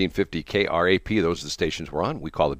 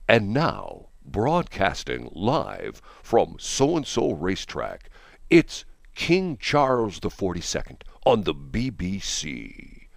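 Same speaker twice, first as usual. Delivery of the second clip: put-on slow, grand old-school British announcer; beautiful BBC announcer voice; much slower than usual. Imitating the BBC announcer in the King's movie, slow and grand. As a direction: stretch it out like a posh wireless presenter. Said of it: "in that beautiful voice".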